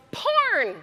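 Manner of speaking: high-pitched mock heckle; high, drawn-out audience shout; imitated yell. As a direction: yell it out like someone in the crowd, without full volume. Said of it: "somebody from the audience yells".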